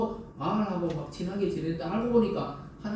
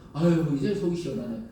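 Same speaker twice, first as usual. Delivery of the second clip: mock relieved parent. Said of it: "이러지 않잖아요".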